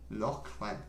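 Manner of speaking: Lachlan softly tried as LOCK-lən; corrected pronunciation. Shown as a demonstration. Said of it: "you pronounce it like".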